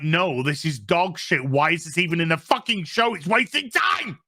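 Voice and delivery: rant, climbing to an outburst at the end; acted fed-up outburst, rising in pitch; mock exasperated rant. Character's acted outburst about scene.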